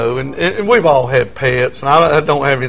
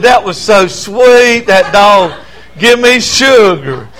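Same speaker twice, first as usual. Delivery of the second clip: higher, doting mock sweetness; imitating sweet wife; 5 semitones higher, slower than usual. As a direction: gush like a wife charmed by a dog. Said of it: "she just smiled and said".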